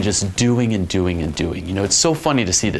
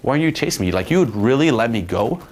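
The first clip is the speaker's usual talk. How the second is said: higher mock-offended protest; playful indignation; 3 semitones higher than usual. Shown as a demonstration. Coach teasing a girl who let him go, playful indignation. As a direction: act affronted as a tease. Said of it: "Playfully start amplifying".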